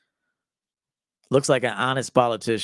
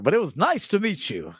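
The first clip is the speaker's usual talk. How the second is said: lightly voiced eager networker, a bit higher; chatty party-guest impression; imitating a smooth schmoozer; 3 semitones higher than usual. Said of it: "That's how he looks like he talked".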